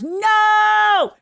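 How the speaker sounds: high, loud burst of disbelief; shocked no. Real, not acted. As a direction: blurt it out in shock. Hears of seven-hour singing.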